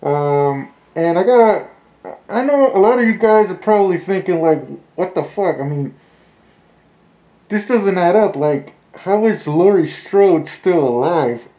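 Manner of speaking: muffled through a mask; talking behind a mask; through a face mask. Real, not acted. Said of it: "I don't know if you guys can hear me through the mask".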